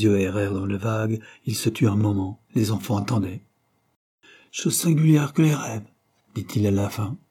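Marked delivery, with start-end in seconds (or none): 4.5-5.9 père rêveur. A narrator's reading.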